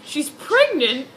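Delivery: mocking the baffled boyfriend; mock Edward voice. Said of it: "He's like".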